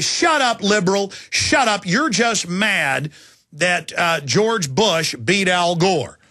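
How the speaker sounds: shouted shut up, then a slow sneer; mocking a dismissive heckler. Caller mocking the host as a sore loser, sneering slow. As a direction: bark it, then drag out the put-down. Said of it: "And they'd say".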